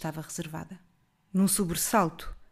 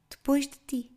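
jovem firme; 6 semitones higher than usual. A narrator's reading. Girl refuses firmly.

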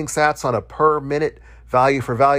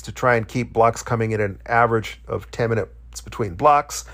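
stumbling over words with a swollen tongue; talking around a swollen, sore tongue. Real, not acted. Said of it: "I'm also having a little bit of hard time speaking tonight".

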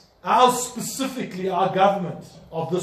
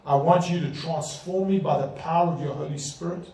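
sinner's prayer. Shown as a demonstration.

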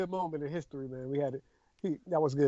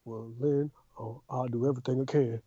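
lower, measured preacher cadence; Bill's cadence; 8 semitones lower than usual. Retold or imitated. Cohost mocks Bill's preacher cadence, lower and measured. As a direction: drop low and sermonize it like a civil rights preacher. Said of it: "hitting his cadence".

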